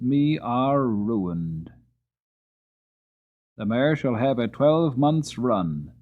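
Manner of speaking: lightly voiced irritated old earl; annoyed Earl. Earl decides the horses' fate.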